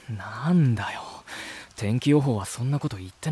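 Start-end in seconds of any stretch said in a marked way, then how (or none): 0.1-1.0 muttered under the breath, annoyed; whispered grumble. Real, not acted. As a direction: grumble to yourself about the rain. Grumbling at sudden rain.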